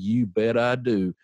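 slow, deliberate affirmation; unequivocal. Retold or imitated. Man answering the lady's challenge without missing a beat, unequivocal. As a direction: answer with complete certainty, each word weighted.

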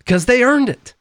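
high sarcastic singsong echo; mocking echo. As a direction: parrot it back in a high mocking voice.

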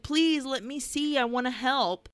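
pleading. Retold or imitated. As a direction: beg like an eager little girl. Retold child begging to join.

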